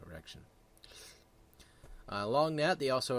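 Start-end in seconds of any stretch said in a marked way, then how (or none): 0.1-0.4 breathy whispered word. Pretend. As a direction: whisper it suggestively. Whispered after joke.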